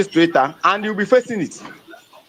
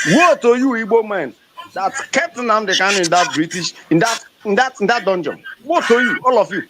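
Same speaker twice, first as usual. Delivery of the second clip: fervent denunciation; 2 semitones higher than usual. Real, not acted. Activist cursing the Igbo leaders, fervent denunciation. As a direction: pronounce woe on them like a prophet.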